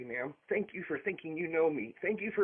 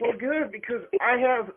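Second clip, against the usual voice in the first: real heated retort, louder and higher; yelling; 6 semitones higher, 6 dB louder, slower than usual. Real, not acted. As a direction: cut back in with raised voice. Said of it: "you're yelling at me".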